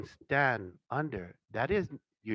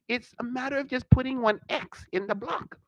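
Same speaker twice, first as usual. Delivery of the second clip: retold teacher line; 13 semitones higher, 5 dB louder than usual. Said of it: "And I ask him".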